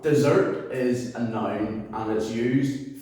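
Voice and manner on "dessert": slow desert said de-ZERT; stress on second syllable. Shown as a demonstration. Teacher defines the sweet food, second-syllable stress on desert. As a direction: put the weight on the last syllable of desert. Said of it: "comes at the second syllable of the word".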